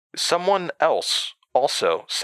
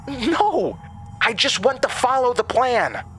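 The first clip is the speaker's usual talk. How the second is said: sharp protest. A narrator's reading. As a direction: snap back defensively. Jasmine protesting.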